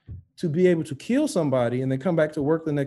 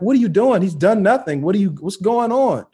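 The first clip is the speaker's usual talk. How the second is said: higher, insistent imitation of friend; alarmed protest; 5 semitones higher, 5 dB louder than usual. Friend questioning cops during arrest, alarmed protest. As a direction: plead his case, voice raised.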